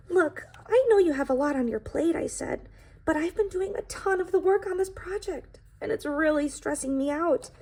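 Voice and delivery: firm plea. Acted. Pie confronts best friend Jake.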